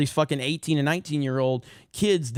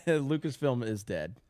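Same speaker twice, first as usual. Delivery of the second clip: laughing; 3 semitones higher, slower than usual. Real, not acted. Laughing at the super chat.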